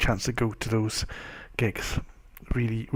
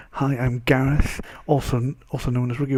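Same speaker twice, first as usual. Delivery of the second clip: new intro try. Shown as a demonstration. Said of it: "It should be".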